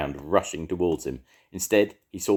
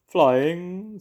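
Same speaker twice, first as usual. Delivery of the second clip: high, loud owl voice; a show-off owl; 13 semitones higher, 6 dB louder than usual. A narrator's reading. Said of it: "said the owl".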